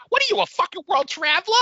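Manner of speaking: high, fast, brash Brooklyn accent imitation; mock Long Island accent, rising at the end; imitating her Brooklyn accent. Brother teasing him at home in a Brooklyn accent. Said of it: "my brother will just look at me and go".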